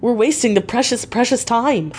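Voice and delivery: a touch of impatient crying out; urgent cry. Acted. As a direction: plead not to waste time. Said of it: "I cried".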